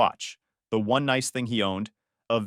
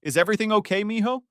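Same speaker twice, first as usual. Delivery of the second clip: concerned call; 8 semitones higher, faster than usual. Acted. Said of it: "she called out".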